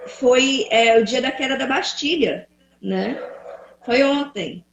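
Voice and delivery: glitchy robotic call audio; breaking up like a bad connection. Real, not acted. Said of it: "tá robotizada".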